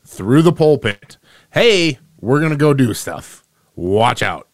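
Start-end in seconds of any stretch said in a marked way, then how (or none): 1.5-4.5 lightly hammed-up, drawn-out public announcement; mock proclamation. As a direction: proclaim it like a mock rebel leader, louder at the start. Mock alliance announcement from pulpit.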